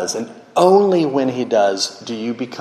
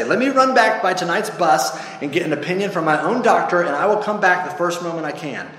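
lightly voiced wheedling ghost, higher; bargaining ghost; 6 semitones higher, faster than usual. Ghost asks to see his own doctor, higher and wheedling. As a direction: bargain anxiously for a delay.

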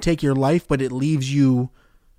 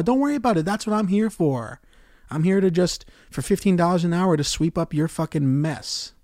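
sarcastic rage; 5 semitones higher than usual. Real, not acted. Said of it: "the real rage coming out of me".

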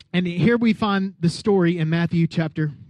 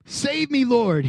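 mock cry for help; 5 semitones higher, slower than usual. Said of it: "he shouted".

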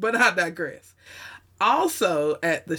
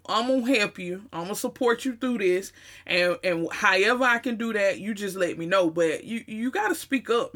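higher, loose, blunt homeboy register with a Southern accent; casual friend talk; 3 semitones higher than usual. Shown as a demonstration. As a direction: talk straight to a buddy in Southern slang. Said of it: "I would deliver it to them like".

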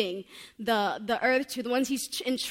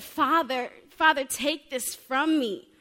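louder, pleading, drawn-out prayer; raised voice crying to the Father; anguished plea; 4 semitones higher, 6 dB louder, slower than usual. Acted. Jesus pleading in Gethsemane.

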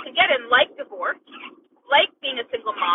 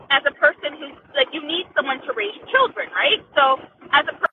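bad connection. Real, not acted. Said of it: "Can you guys hear him?".

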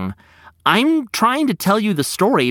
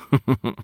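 clucking laugh; 3 semitones lower than usual. A narrator's reading. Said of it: "he clucked".

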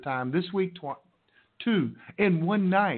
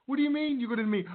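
surprised; 8 semitones higher, faster than usual. Retold or imitated. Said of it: "And I'm like".

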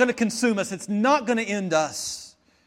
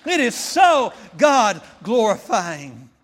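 slower shouted repeat; 3 semitones higher, 6 dB louder, much slower than usual. Shown as a demonstration. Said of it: "And it is so God-glorifying".

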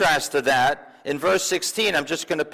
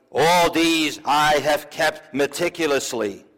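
proud, slow declaration; slower than usual. Acted. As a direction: announce it slowly with self-satisfied pride. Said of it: "then he says proudly".

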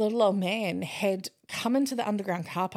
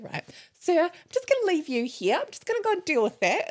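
put-on higher-pitched, kindly instructions to an elderly man; taking gentle charge; 11 semitones higher than usual. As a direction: settle him before stepping away. Reassuring the old man before leaving.

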